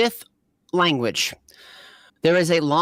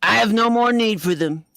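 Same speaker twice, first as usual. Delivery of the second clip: pitched up, lordly and cold; cold villain dismissal; 5 semitones higher, 3 dB louder than usual. Acted. General Zeals dismisses the prisoners, cold and lordly. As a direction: wave them off like they're nothing.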